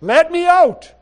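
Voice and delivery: building from loud to full shout, each out falling; Spirit crying out. Acted. Preacher voicing the Spirit to the congregation, rising shout. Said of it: "of him saying".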